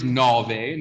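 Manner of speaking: "nove" with an open O. Shown as a demonstration. Teacher giving the number nine, open O in "nove". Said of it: "but they know it's nove".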